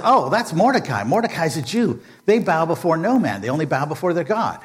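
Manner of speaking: a hint of a nervous servant explaining. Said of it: "the servant says".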